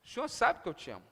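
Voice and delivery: resposta baixa e rápida, envergonhada; cabisbaixo. Acted. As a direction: responda quase para dentro, sem coragem. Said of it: "E Pedro, cabisbaixo". (cabisbaixo, em voz baixa)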